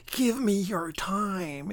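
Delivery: high, slow, eerie leech voice; commanding leech. Acted. Leech in the office demanding his time, slow and eerie. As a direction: stretch it out like a hungry parasite. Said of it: "it commands".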